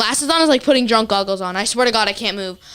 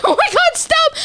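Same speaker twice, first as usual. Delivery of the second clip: high exasperated whining; high mock whine. Brother begging mom to stop, high mock whine. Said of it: "Nick's like".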